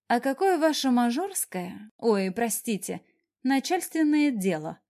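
mock-sweet sniping at the boss; snapping back. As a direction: bite back with sarcasm. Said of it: "огрызнулась я".

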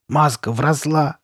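slow, mildly shocked exclamation; crying out. A narrator's reading. Girl seeing the mask has grown in, exclaiming. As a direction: draw it out in dismay. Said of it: "вскрикнула она".

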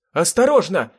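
a loud, high cry of alarm; shrieked warning. A narrator's reading. Anne shrieks a warning to the driver as zombies appear, loud and high. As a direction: yell it out as the dead leap in front. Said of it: "завизжала Энн".

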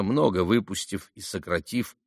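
usual speaking voice

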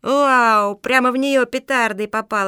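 put-on high, loud boyish crowing; gleeful boy. A narrator's reading. Boy hits Mafi with firecracker, crowing gleefully. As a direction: whoop with mischievous delight. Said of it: "обрадовался мальчишка".

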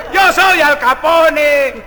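put-on slow, drawn-out drunken boast; little drunk. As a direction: call it out like a tipsy man in the corner. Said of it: "Un borrachito que estaba en el rincón dice".

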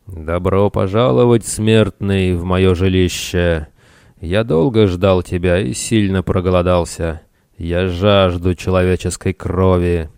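a hint of a menacing cave demon; ominous voice. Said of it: "послышался зловещий голос".

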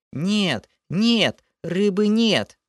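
high, shrill panicked creature wail; wild wailing. Acted. Water spirit wails in panic at the hero, high creature voice. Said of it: "Дико заблажил Лохар".

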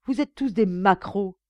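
loud accusing cry. A narrator's reading. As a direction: hurl the accusation. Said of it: "m'écriai-je".

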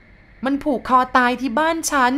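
high, slow tearful near-shout. Acted. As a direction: cry it out, almost shouting. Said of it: "แม่นั่นแกพูดแทบตะโกน". (เกือบตะโกนทั้งน้ำตา)

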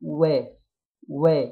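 و as a thin consonant with an open short vowel; light smiling waw. Shown as a demonstration. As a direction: say و lightly through a smile. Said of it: "نبتسم فيها وننطقها". (واو مرققة مفتوحة مع ابتسامة)

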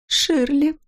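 a wife's pitiful moan; a wife moaning the name to her husband. Acted. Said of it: "простонала Рут".

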